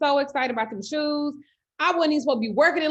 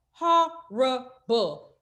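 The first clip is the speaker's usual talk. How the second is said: Horrible said very slowly and stretched; drawn-out disgust; much slower than usual. Real, not acted. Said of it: "that shit was horrible".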